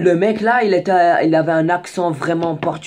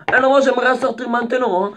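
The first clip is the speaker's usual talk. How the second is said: louder, higher insistence; insistent demand; 9 semitones higher, 5 dB louder than usual. Retold or imitated. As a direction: insist firmly on getting off now. (exige plus fort et plus aigu)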